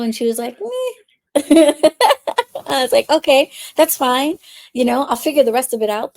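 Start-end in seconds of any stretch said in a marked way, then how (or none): 0.6-1.3 very high, offhand meh; a squeaky careless shrug of a meh; shrugging meh. Retold or imitated. Friend shrugs off hell question. 1.4-2.6 burst of laughter. Real, not acted. Laughing at her own story. 3.1-6.1 relieved acceptance. Retold or imitated. Younger self accepting it.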